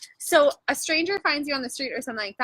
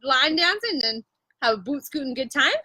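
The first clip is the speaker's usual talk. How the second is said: hammed-up Canadian buddy, laughing a little; Canadian accent. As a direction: lay on the Canadian "eh, bud". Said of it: "super Canadian".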